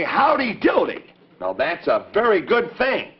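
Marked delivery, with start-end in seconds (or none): 0.0-1.0 "Howdy doody" sung out high; howdy greeting. Shown as a demonstration. Puppet shows the kids how to greet. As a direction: sing out the greeting. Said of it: "and you say".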